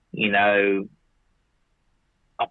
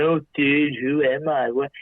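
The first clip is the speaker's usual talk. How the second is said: lightly mocked trippy movie character, pitched up; a hint of hammed-up dazed movie wonder, higher; movie stoner cliche; 4 semitones higher than usual. Speaker mocks cliche trippy questions from movies, lightly hammed-up. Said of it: "Like in movies".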